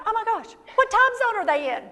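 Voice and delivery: a light flustered panic; mock panic. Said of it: "started to panic going".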